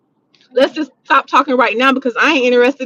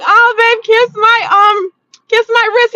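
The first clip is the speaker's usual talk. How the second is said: put-on high, breathy-free helpless girlfriend voice, much higher pitch; damsel in distress; 10 semitones higher, 4 dB louder, slower than usual. Teasing her boyfriend after opening the car door herself, high helpless damsel voice. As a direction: play the helpless damsel asking her boo for sympathy.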